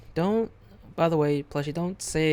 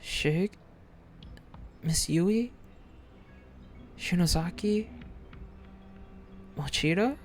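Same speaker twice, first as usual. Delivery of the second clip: calling out names; 3 semitones higher than usual. Acted. Calling out to missing friends.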